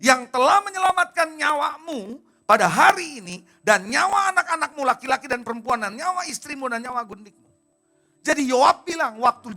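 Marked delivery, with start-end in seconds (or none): 0.0-7.5 angry rebuke. Acted. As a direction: lay the blame on the king, weighty and loud. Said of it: "kenapa dia marah?". (teguran marah, keras dan lambat)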